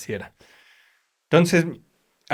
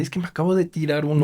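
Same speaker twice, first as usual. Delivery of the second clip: laughing confession; 2 semitones higher, faster than usual. Retold or imitated. Friend confessing fart, laughing.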